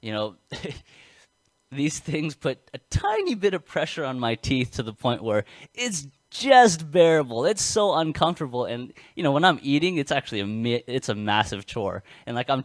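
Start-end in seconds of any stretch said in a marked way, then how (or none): 0.0-8.7 talking with braces. Real, not acted. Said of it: "I'm saying this with braces in my mouth".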